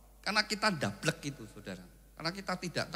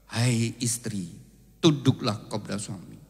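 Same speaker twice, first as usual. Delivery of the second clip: voice of God; 3 semitones lower, 6 dB louder than usual. Acted. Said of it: "Tapi Tuhan berkata".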